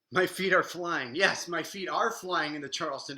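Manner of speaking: loud, joyful cheer while dancing; thrilled call mid-dance; excited. Real, not acted. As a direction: celebrate the step out loud.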